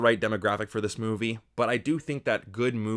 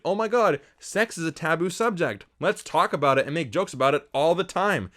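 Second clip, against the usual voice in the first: higher-pitched mock gasping enthusiasm; mock scandalized excitement; 6 semitones higher, 3 dB louder than usual. Reviewer mocking the movie's juvenile humor, mock excited. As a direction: imitate someone thrilled by a taboo. Mocks the film's excited attitude.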